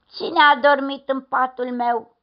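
loud, lightly voiced bear grumble; grave grumble. A narrator's reading. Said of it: "a mormăit grav".

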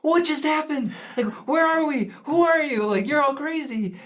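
high, incredulous rush of questions; lifted high in disbelief at the crazy family; bewildered. Retold or imitated. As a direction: sound utterly baffled. Missionaries shocked, voiced.

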